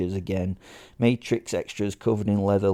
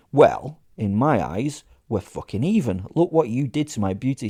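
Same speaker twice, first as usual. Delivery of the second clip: louder, petulant comeback; loud sulky retort over his jacket; indignant retort; 3 semitones higher, 4 dB louder than usual. Acted. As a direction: snap back defending the jacket. Narrator retorts about his jacket.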